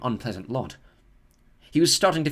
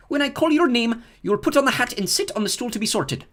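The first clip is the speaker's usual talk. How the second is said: higher, louder formal teacher voice; stern teacher; 12 semitones higher, 5 dB louder than usual. Acted. McGonagall instructs the nervous first-years, higher and formal. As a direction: address the first-years like a strict professor. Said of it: "she said".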